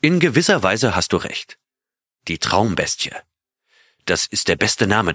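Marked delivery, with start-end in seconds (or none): none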